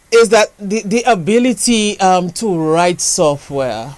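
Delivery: slowly, word by word; slow, careful. Real, not acted. Host checking he is on the right track, slow and careful. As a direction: spell out the idea slowly, pausing to get it right. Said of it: "I'm gonna say it slowly".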